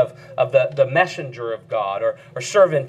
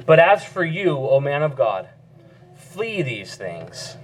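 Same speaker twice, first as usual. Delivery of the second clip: measured, solemn reading of the verse; scripture reading. Acted. Pastor reading Paul's charge to the congregation, solemn. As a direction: read the command with gravity.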